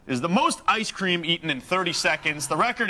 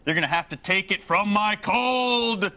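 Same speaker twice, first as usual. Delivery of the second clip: slow, defiant gun-rights orator; Charlton Heston; 3 semitones higher, slower than usual. Retold or imitated. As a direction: growl it out like a defiant action hero. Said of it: "That's my Charlton Heston impersonation".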